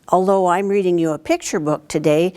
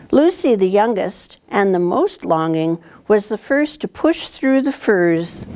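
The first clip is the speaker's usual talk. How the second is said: storybook reading; 3 semitones higher than usual. A narrator's reading. Teacher reads picture book aloud.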